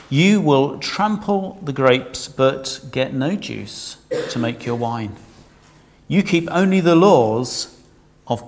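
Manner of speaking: weighty, measured reading of God's judgement; scripture reading. Acted. Preacher reading God's judgement to his congregation, weighty. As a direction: read it out as God pronouncing doom. Reads Micah judgement aloud.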